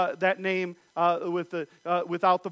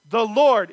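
'The Lord' said louder, set apart; stress on The Lord; 6 dB louder than usual. Shown as a demonstration. Preacher pointing out the all caps Lord with stress. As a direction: punch 'The Lord' for the class. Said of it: "if you see that Lord".

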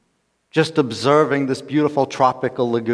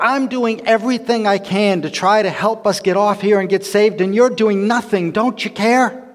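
furious shout; 6 semitones higher than usual. Acted. Stranded man yelling at his idle companion, furious. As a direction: shout at him in outrage. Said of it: "Finally, he's getting downright furious".

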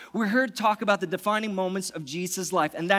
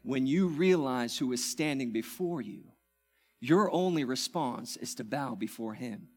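softer, lower earnest appeal; hushed appeal; 6 semitones lower, 5 dB quieter than usual. Acted. Pastor urging church to bow, hushed. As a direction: speak it low and sincere.

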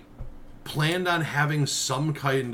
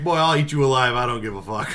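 laughing through a mock threat; tough-guy threat, cracking up; laughing tough talk; 4 dB louder than usual. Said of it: "You're like".

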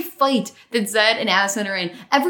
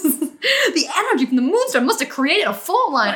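laughing quote; 5 semitones higher than usual. Retold or imitated. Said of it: "Zed looks down and goes".

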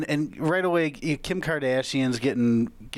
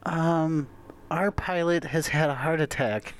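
airport announcement; 4 semitones higher than usual. Pretend. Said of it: "So this would be like".

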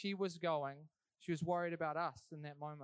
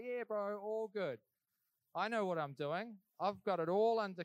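breezy mock confidence, a bit louder; fake casual; 2 semitones higher, 4 dB louder than usual. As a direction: pretend everything's fine, bro. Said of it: "to put on a facade".

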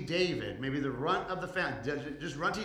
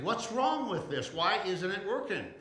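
frustrated questioning; 5 semitones higher than usual. Acted. David's frustrated perspective.

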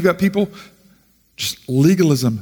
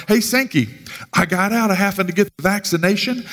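lightly voiced acquaintance, pitched higher; imitated acquaintance; 6 semitones higher than usual. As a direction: imitate someone proudly sharing news, higher voice. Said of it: "Person just says to me".

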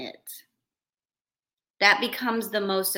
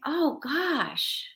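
caring apology; 4 semitones higher than usual. Retold or imitated. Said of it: "you automatically say".

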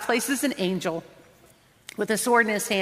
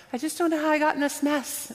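whiny complaint; 7 semitones higher, faster than usual. Retold or imitated. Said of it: "people sometimes is like".

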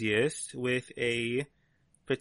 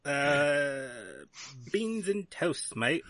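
put-on British accent; slower than usual. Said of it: "I love your new accent".

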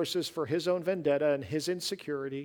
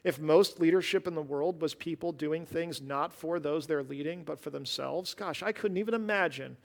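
sarcasm. Real, not acted. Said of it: "this is sarcasm".

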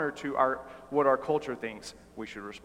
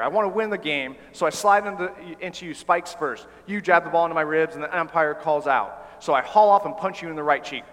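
louder, driving, fast in places; fired-up speaker; 3 semitones higher, 5 dB louder than usual. Acted. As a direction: build the scenario, pushing hard. The speaker acting hot-headed player.

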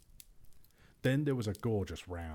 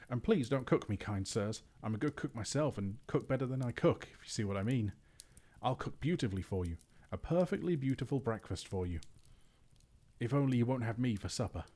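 higher, hurried frightened begging; pleading; 4 semitones higher than usual. Acted. Bilbo begs the trolls not to cook him, frightened. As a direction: beg for your life, babbling. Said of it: "said Bilbo, gasping".

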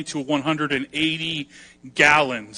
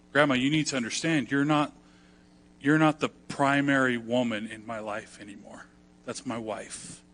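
nice explaining; 5 dB quieter than usual. Retold or imitated. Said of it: "explain to her in a nice way".

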